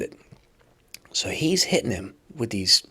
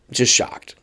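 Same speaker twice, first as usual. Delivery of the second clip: shocked whisper. Real, not acted. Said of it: "Completely shocked".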